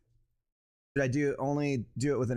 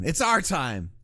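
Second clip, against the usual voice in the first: mock rallying cry; 3 semitones higher, 4 dB louder, slower than usual. Streamer quoting a movie line, mock rallying cry. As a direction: proclaim it like a movie hero.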